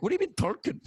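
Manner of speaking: high-pitched mock Belgian accent; terrible Belgian accent. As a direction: badly imitate a baffled Belgian, pitched well up. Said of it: "this is a terrible accent".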